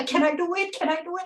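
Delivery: half-hearted imitation of her own panic; mild mock nervousness. Retelling her fear before her first business, mild mock nervous questioning. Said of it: "I was, like, shaking".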